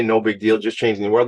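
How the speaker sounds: "No big deal" said dry and level at normal pitch; same joke, played down and even; deadpan repeat of the catchphrase; understated tongue in cheek. Shown as a demonstration. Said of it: "That's tongue in cheek".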